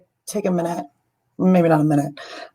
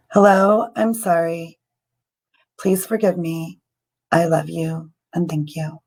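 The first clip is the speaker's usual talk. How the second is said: prayer recitation. Shown as a demonstration. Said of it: "say that a couple times".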